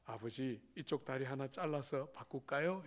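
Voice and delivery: lightly soft teasing; mock gentle son. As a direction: son teasing father, softly. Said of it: "이러면".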